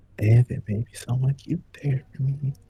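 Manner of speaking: mumbled, muttered quietly under the breath. Imagining what Mara would say after being posted, muttering as Mara under breath. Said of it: "I think under their breath".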